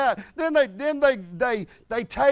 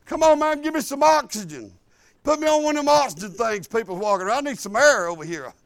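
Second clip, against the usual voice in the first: breathless plea; faster than usual. Retold or imitated. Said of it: "I wanted to say".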